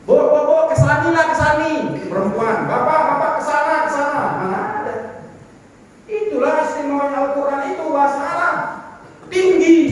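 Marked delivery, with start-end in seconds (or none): 0.1-4.2 mock calling out. Preacher jokes about a made-up feminine kesani, calling out. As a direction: tease by inventing a gendered kesani. Mock gendered Indonesian demonstration.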